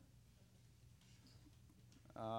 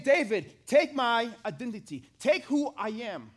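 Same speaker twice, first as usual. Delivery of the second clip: louder, pressing, slowing at the end; urgent command; 3 semitones higher, 5 dB louder, slower than usual. Retold or imitated. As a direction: urge him hard, then slow it down. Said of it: "He's saying".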